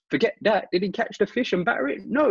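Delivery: very high, squeaky mock outburst; hammed-up high-pitched disbelief; frantic dismissal. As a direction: brush it aside in a shrill imitation. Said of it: "And he just goes".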